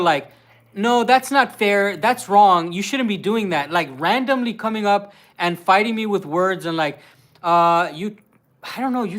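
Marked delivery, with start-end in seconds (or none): 0.7-3.7 put-on drawn-out, louder valley girl scolding; mock valley girl. Husband mimicking his partner's American act, mock valley girl. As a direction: imitate a valley girl telling someone off. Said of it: "talk like a valley girl".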